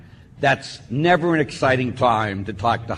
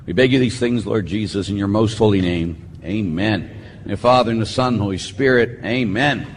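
prayer; 3 semitones lower than usual. Acted. Priest opening Mass with prayer, solemn. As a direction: lead the people in prayer.

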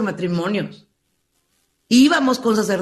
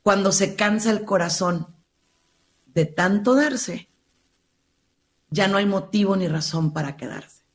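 quoting a lyric. Retold or imitated. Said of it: "una frase muy linda que dice".

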